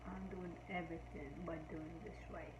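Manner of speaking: slurred, tipsy and slowed; tired tipsy mumble. Real, not acted. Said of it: "I'm stumbling. I'm mumbling".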